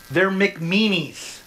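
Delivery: put-on slow, pouty childish name-calling; mock childish sulk. Pastor mocking a listener's name-calling, slow and pouty. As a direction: sulk it like a kid. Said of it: "this one's yours".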